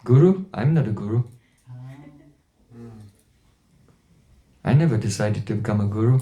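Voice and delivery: low, gentle, unhurried reply. Retold or imitated. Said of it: "very gently, he said".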